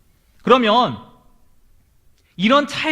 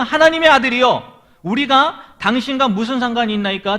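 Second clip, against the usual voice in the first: mildly raised, higher-pitched mock cry; retold cry; 3 semitones higher than usual. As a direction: call it out like a storyteller quoting an outcry. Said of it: "소리 질러서".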